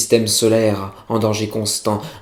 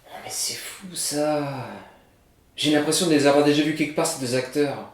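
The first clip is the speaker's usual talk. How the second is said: imitating the viewer; 3 semitones higher, 6 dB quieter than usual. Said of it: "Tu te dis".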